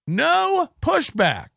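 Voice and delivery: slow mock emphasis on No pushback; drawn out. Shown as a demonstration. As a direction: draw out No pushback mockingly. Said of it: "N-, no pushback".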